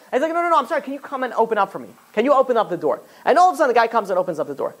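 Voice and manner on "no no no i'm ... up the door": high-pitched hasty mock apology; higher, placating acted plea; apologetic pleading. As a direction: act out pleading to be let in. Retold man apologizing, pleading for rescue.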